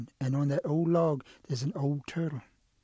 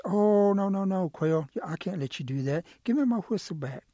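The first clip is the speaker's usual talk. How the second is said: protesting refusal; 4 semitones higher than usual. Acted. Storyteller as Turtle wanting his whistle back, protesting. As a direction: object and demand your property back.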